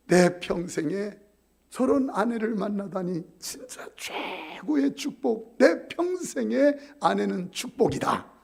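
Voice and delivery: slow, earnest husband's praise; slow blessing. Shown as a demonstration. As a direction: let the praise flow out slowly. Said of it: "이거 봐, 샘솟듯이 나오잖아".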